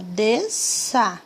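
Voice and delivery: "Desça" in two beats, des-ça; short break inside "Desça"; syllables separated. Shown as a demonstration. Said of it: "Vamos ver o desça também".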